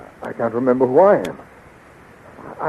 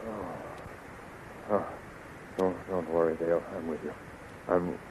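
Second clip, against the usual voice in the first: much softer, barely voiced murmur; dazed and weak; 6 semitones lower, 15 dB quieter, slower than usual. Flash coming round from the sleep gas, dazed and faint. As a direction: drift up out of drugged sleep.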